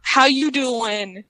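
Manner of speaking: drawn-out New York greeting imitating the crowd; New York accent. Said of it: "In a New York accent".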